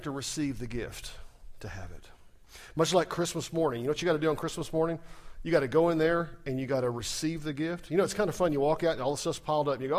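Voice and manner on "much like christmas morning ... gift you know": ordinary delivery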